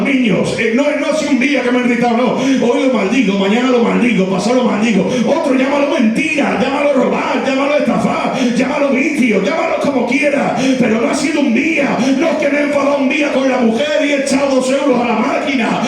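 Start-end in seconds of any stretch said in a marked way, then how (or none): 5.3-15.8 preaching at full force. Acted. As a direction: thunder it from the pulpit to the congregation. (predicación encendida a pleno pulmón)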